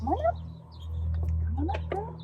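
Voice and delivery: high sing-song come up call; high coaxing call. Real, not acted. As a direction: lure her up with a bright call. Calling dog onto bench.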